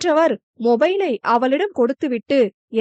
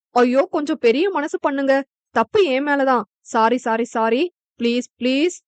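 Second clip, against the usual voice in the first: pleading. Acted. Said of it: "என கெஞ்ச".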